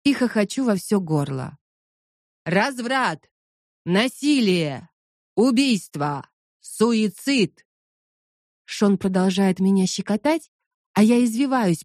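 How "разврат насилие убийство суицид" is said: preacher shouting slogans; slow, falling preacher's cries; loud soapbox ranting. Acted. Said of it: "выкрикивает лозунги голосом проповедника". (кричит лозунги как проповедник)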